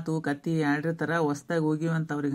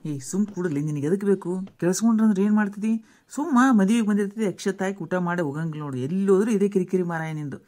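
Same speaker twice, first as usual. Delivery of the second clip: mildly exasperated telling-off with louder bursts; irritated scolding; 5 dB louder than usual. Acted. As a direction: shush a meddling companion, annoyed. Acted scolding of a meddling wedding guest. (ಕಿರಿಕಿರಿಯಿಂದ ಗದರುವ ಧ್ವನಿ)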